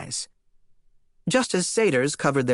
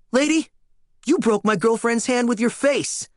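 outraged shout; 9 semitones higher than usual. Acted. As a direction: yell it in stunned outrage. Leo yells at the attacker.

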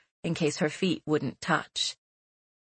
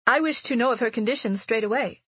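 higher, firm demand; 5 semitones higher than usual. Acted. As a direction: insist on it, no delay. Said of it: "Sarah demanded".

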